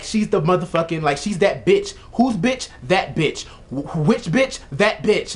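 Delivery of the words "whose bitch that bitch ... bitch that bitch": high playful call-out; hyped up. Real, not acted. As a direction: hype it up like a chant. Call and response hype.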